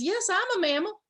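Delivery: a hint of a chatty monkey answering questions. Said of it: "The monkey says".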